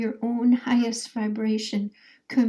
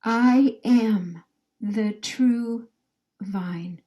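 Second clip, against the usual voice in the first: slow and solemn, fading on vine; a lead-in line for the group to repeat; slow, reverent proclamation; much slower than usual. Shown as a demonstration. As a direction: intone it like a sacred oath. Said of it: "Say that over with me".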